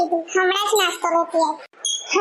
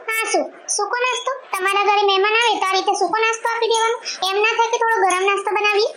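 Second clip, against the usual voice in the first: scornful complaint; 3 semitones higher, faster than usual. Acted. Sister-in-law scolds over dry snacks.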